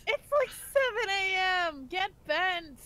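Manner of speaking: loud, slow grumpy yell; grumpy shout. Acted. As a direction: bark it out, annoyed. In-character outburst.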